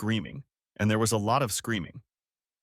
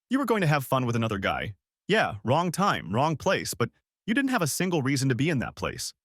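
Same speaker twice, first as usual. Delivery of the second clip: furious; 3 semitones higher than usual. Acted. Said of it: "Furious, I snapped back".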